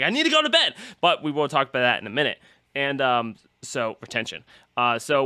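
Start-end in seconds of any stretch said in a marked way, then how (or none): 0.0-0.7 squeaky self-plea. Retold or imitated. Retold self, high pitch.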